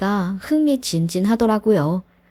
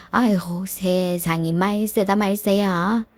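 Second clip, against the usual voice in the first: 천천히 늘어지는 가볍게 연기한 탄식; 혀를 차듯 느리게 한숨 섞어 한탄; slower than usual. Acted. 시모가 한탄함. (느리게 가볍게 연기한 시어머니 한탄)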